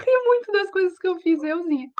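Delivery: reading aloud through real laughter; laughing while reading. Real, not acted. Teacher reading a student's comment, laughing. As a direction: giggle through the comment as you read it.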